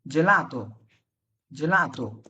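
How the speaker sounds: "gelato" with g sounded as English j; soft g pronunciation. Shown as a demonstration. Teacher illustrates the rule, "gelato" with a soft j sound. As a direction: say "gelato" as jeh-LAH-to, falling. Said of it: "জি এর পরে যখন এ অথবা ই থাকবে".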